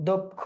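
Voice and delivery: দক্ষ as "dok-kho"; closed pronunciation. Shown as a demonstration. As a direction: round o in the first syllable of দক্ষ. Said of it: "সংবৃত উচ্চারণ হয়".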